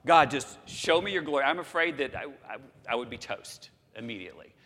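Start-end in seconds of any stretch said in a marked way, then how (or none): 0.1-1.4 bold request. Retold or imitated. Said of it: "Can you imagine having said that to God".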